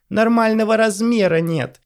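high, loud, slow hysterical yell; hysterical shout. Acted. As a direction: scream it hysterically. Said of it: "истерично закричала Ванесса".

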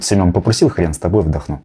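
неохотный вдох. Retold or imitated. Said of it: "Не то, что типа такой вот".

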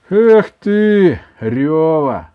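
loud, fond teasing; affectionate. A narrator's reading. Grandson to his weeping grandmother, affectionate. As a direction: tease the crybaby fondly. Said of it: "сказал Иван ласково".

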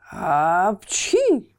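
hammed-up loud sneeze. A narrator's reading. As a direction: sneeze it out hard. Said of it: "с треском чихал".

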